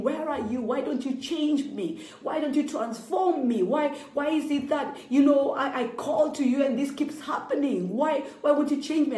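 mild imitation of wailing to God; retold wailing to God. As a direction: relive the plea, only lightly. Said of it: "wailing to God and saying".

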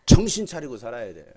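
a sudden loud warning; loud exhortation. Real, not acted. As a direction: belt it out loud to wake them. Pastor exhorts congregation loudly.

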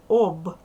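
об loud, with a ringing final B; loud, distinct syllable об ending in B; clear voiced ending. Shown as a demonstration. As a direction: punch out об with Б fully voiced, not P. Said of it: "Вимовляй чітко, дзвінко".

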